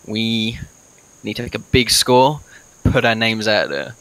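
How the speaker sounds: slow, halting in-character speech; rally the party, with long pauses; lightly voiced adventurer. Plays his character's speech to the party.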